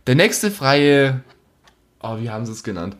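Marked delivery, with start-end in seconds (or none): 0.1-1.2 phone menu voice. Retold or imitated. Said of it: "kommt so".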